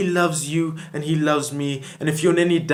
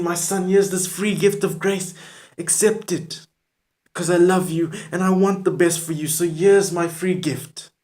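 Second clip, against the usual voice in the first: lightly voiced Jesus, pitched higher; a hint of Jesus calling out, higher; voicing Jesus; 4 semitones higher than usual. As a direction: speak as a pleading Jesus, higher up. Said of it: "He's saying".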